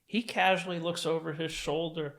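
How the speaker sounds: ordinary talk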